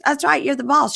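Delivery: hammed-up eager-to-please husband; appeasing husband imitation. Voicing husband appeasing his partner.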